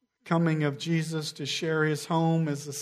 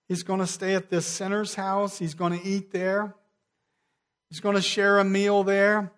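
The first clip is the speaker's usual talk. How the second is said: crowd grumbling; 4 semitones higher than usual. Acted. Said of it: "The murmuring begins to move through the crowd".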